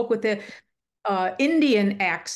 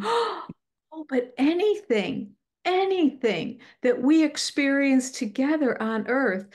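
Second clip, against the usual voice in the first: gasp, then a higher, drawn-out imitated reassurance; reassuring retold wife; 5 semitones higher, slower than usual. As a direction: play the loving wife consoling her husband. Retold spirit wife reassures husband.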